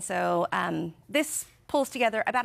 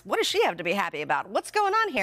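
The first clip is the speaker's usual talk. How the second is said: puzzled brain voice. Retold or imitated. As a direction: play the suspicious brain. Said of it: "your brain goes".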